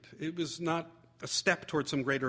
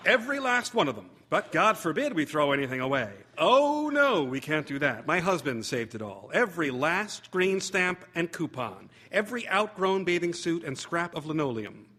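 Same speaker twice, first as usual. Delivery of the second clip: lightly voiced mother ranting about the clutter; exasperated mother; 2 semitones higher, 3 dB louder than usual. Mother voiced complaining to guest.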